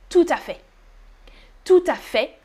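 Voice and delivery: no T at the end of FAIT; FAIT with silent T. Shown as a demonstration. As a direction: say TOUT À FAIT as "too-ta-fay". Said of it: "you do not pronounce the final T".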